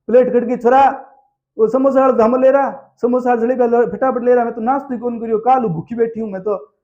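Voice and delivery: mock complaint from a hungry wedding relative; imitated hungry aunt. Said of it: "ऐसे करके". (भूखी बुआ की ऊँची शिकायती नकल)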